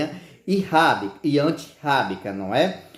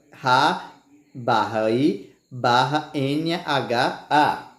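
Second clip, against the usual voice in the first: spelled out slowly with pauses at each break; syllable by syllable; much slower than usual. Shown as a demonstration. Teacher splitting "rainha" into syllables, slow and deliberate. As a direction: dictate the syllable division piece by piece. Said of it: "na separação fica".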